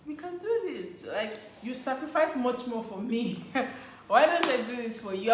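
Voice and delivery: high, eager self-pep talk; eager resolve. Retold or imitated. Girlfriend deciding to treat boyfriend, eager and high. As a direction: talk herself into it, rising up high. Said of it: "But I thought".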